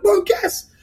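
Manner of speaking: high-pitched giddy squeal; acted-out bursting excitement; excited urging. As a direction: tease mom with huge news. Re-enacting excited call to mom.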